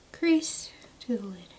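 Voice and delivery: hushed reminder of the step; whispered. Shown as a demonstration. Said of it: "repeated phrase".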